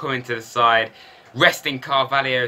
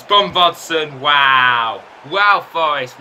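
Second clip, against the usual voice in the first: surprised; 3 semitones higher, 5 dB louder, much slower than usual. Real, not acted. Shock at opponent's goal.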